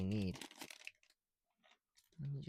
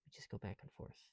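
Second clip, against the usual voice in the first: whisper; 10 dB quieter than usual. Real, not acted. Repeats line to self.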